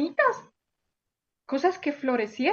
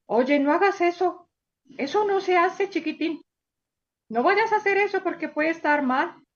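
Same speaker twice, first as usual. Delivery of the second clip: gentle pet warning; 3 semitones higher than usual. Acted. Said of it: "tu mascota te diría".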